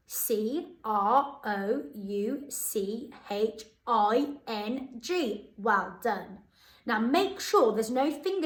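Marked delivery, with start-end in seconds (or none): 0.1-5.5 slow letter by letter; spelling aloud. Shown as a demonstration. Teacher spelling the word for pupils to check. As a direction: spell each letter out slowly. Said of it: "let's see if you're right".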